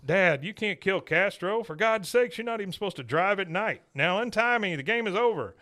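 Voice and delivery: a son pleading with his dad, mock desperate; Hank pleading.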